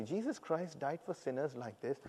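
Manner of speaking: soft, understated retelling, quietly moved; hushed, touched restatement. Retold or imitated. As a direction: say it softly in one go, taking it in. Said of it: "but it moved me".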